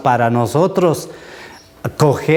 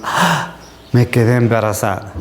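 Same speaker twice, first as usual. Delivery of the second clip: dismayed woman. Retold or imitated. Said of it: "Esto es lo que dicen tantas personas".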